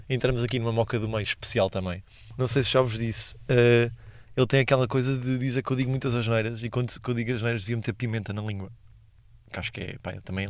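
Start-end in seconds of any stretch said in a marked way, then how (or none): none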